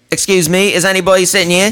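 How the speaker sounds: high, fast nervous stranger impression; high mimic voice. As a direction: squeak it out like an awkward stranger. Mimicking the odd guy at bar.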